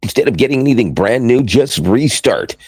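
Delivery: a hint of radio announcer salesmanship. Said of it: "I gotta do the radio voice and say".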